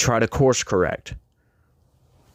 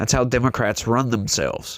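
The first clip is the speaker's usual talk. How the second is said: normal talking voice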